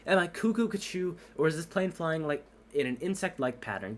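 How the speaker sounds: can't believe what he sees; astonished. Acted. Tower controller astonished.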